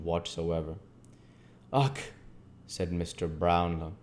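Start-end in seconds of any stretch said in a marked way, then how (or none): 1.7-2.0 short acted grunt of distaste; shuddering ugh. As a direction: give a slight shudder of disgust. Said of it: "with a slight shudder".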